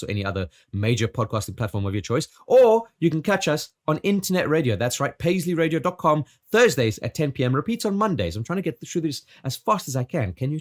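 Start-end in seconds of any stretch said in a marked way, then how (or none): 2.5-8.4 a hint of a bright radio DJ; radio host voice. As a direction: plug the show like a radio DJ. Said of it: "Just a little bit of the radio host".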